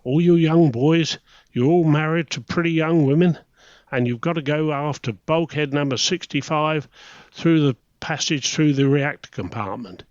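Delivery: sing-song Welsh lilt, mimicking the lecturer; Welsh accent. Welsh instructor lecturing young submariners, in a mock Welsh accent. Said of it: "you've got to do a Welsh accent for this one".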